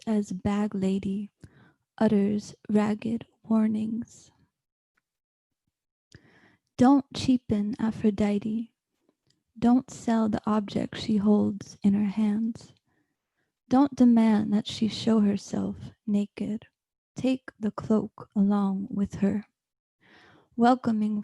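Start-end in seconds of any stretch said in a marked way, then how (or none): 2.0-4.3 slow dramatic whisper. Acted. Whispered line in poem. 9.6-19.4 urgent whispered warning; whispering. Acted.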